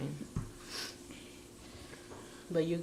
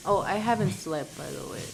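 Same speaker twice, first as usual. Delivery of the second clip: tired; 3 semitones lower, faster than usual. Real, not acted. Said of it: "That's why I look dead".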